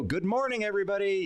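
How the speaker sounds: high mock stage hello; cheesy greeting. Asking if he opens with the cliche, mock cheery. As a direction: lightly ham the cliche opener. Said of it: "do I go".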